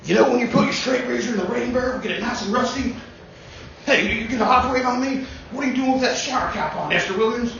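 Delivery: put-on high, folksy old man rambling; Biden impression. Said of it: "Biden's kinda like this".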